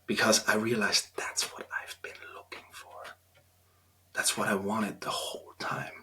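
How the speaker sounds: near-whispered, moved; hushed confession. Real, not acted. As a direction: let it drop to a breathy hush. Moved, confessing deep longing.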